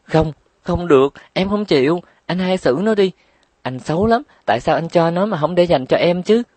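high, tearful wail of protest; crying protest. A narrator's reading. Trúc Nhã cries to her brother that it's unfair, high and tearful. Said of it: "Trúc Nhã bật khóc".

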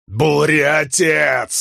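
high, long drawn-out yell. A narrator's reading. Man yells after the storm god, desperate. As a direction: bellow the name after the departing god. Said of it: "заорал Халин".

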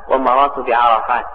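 بعرفات ending in nunated kasra, "-tin"; kasra with tanween. Shown as a demonstration. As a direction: pronounce بعرفات as "bi-arafaatin". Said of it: "ويجر بالكسرة مع التنوين". (بعرفات بتنوين الكسر)

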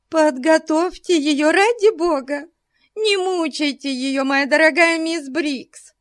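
high, pleading matron; mock concern. A narrator's reading. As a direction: plead with false pity. Mrs Bute feigning concern. (с притворной заботой)

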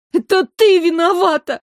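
high, loud tearful accusation; Майра sobbing at the princess. A narrator's reading. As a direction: sob the blame at her. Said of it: "всхлипывая, проговорила Майра".

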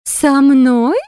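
high, loud, singing fairy queen; loud melodious voice. A narrator's reading. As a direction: ring it out from above. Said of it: "Громкий мелодичный голос".

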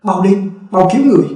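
high, fast urgent yell; shouting urgently. Acted. Narrator yelling at the fleeing crowd to save the baby, urgent shout. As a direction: call the fleeing crowd back, quick and pressing. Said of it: "Tôi gào đám người đang chạy".

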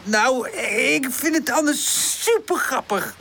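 high, slow, tickled delivery; high-pitched, merry storybook voice; amused. A narrator's reading. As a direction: say it with amusement, stretching the words. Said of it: "lacht Woezel".

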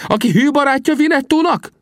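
high, scornful retort; contemptuous Winnetou. A narrator's reading. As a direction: throw the question back with contempt. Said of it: "felelte Winnetou megvetően".

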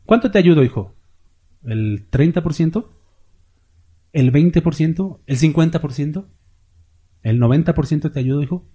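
a father teasingly asking his son; a hint of a gentle God asking; voicing God. God voice continues, bargaining.

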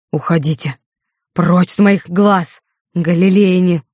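loud, slow furious dismissal; explosion of rage. Acted. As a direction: drive them away in fury. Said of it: "взорвался он гневом". (взрыв гнева, громко и медленно)

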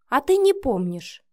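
pointedly sarcastic; snide. A narrator's reading. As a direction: needle him with mock surprise. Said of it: "съязвила Вика".

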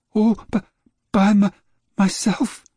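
high, stammering and proud; a small boy showing off his work; proud young boy. A narrator's reading. Boy James tells Dad he built it, proudly stammering. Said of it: "James said proudly".

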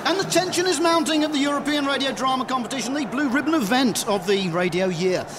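brisk racecourse commentator, rushing the opening line; sports commentary. Acted. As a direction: call it like a big race build-up. Race commentator on drama contest.

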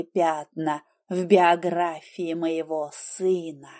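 low, slow, grave fatherly voice; grave older man. Acted. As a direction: speak slow and weighty like a stern father-in-law. Father-in-law speaks low and grave.

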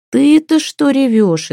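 high, slow astonished question; baffled at the crying child. Acted. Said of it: "изумилась Ева". (изумлённо, высоко и медленно)

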